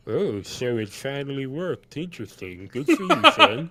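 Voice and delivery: lightly voiced tabaxi, amused; mildly impressed, breaking up toward the end; Farguild. Farguild congratulates his son, lightly voiced approval. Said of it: "he says".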